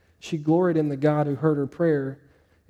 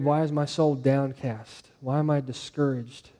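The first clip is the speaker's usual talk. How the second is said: lower, softer, slow lament; downcast prayer; 4 semitones lower, 5 dB quieter, slower than usual. Retold or imitated. Preacher quoting David's prayer to the congregation, downcast. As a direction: pray it low and slowly, weighed down. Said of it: "like David prayed".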